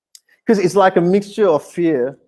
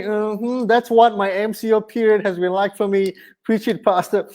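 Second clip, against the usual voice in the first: congregant agreeing; 4 semitones higher than usual. Retold or imitated. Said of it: "I can almost hear some people going".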